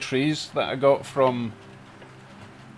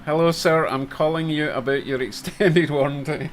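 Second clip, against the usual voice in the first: rushed scripted telemarketer; 3 semitones higher, 5 dB louder than usual. Retold or imitated. Joke telemarketer message quoted.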